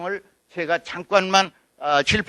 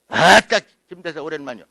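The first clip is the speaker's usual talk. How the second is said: Jeolla greeting; 4 semitones lower than usual. Shown as a demonstration. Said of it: "아따 소리를 넣어야 돼".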